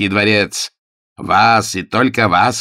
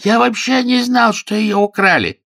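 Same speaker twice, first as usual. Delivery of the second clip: frantic; 6 dB louder than usual. A narrator's reading. Frantic baronet continues.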